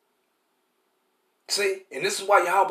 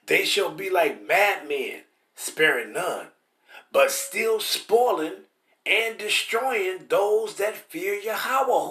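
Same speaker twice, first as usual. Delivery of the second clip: slow, weighty reading of the verse; scripture reading; much slower than usual. Acted. Preacher reading Ezra to the congregation, slow and solemn. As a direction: read it like holy writ, unhurried.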